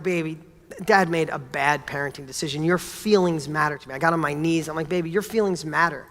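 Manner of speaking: put-on low, gentle voice to a child; tender apology. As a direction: soften down and say sorry to your little girl. Apologizing to daughter on his knees.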